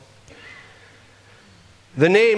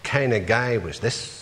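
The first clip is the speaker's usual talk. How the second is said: a troubled onlooker at the cross, pleading and raised; imagined bystander at the cross; 5 semitones higher than usual. Pretend. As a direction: voice a puzzled passer-by at Calvary. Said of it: "you would say".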